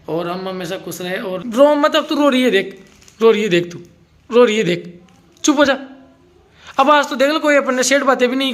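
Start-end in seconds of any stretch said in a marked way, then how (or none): 1.5-8.5 louder, higher teasing nudge; playful teasing. Real, not acted. Husband teasing his crying wife, playfully loud. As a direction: rib her for crying, pitched up.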